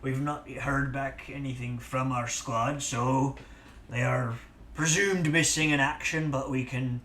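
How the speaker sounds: put-on pirate accent drifting in and out; accent slipping all over; wobbly accent. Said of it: "this accent is going all over the place".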